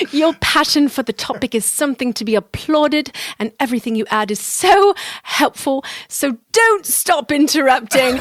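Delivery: laughing through a put-on English accent; English accent, slowing and chuckling at the end; amused English-accent read. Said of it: "read these in an English accent".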